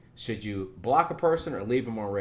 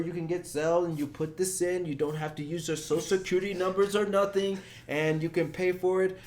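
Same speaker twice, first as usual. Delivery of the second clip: scam caller; 6 semitones higher than usual. Retold or imitated. Voicing the power-bill scammer, a touch higher and officious. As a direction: play the fake utility agent.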